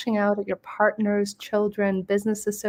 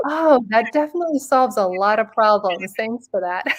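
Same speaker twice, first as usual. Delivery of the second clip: mock grateful; 4 dB louder than usual. Sarcastic reply to advice.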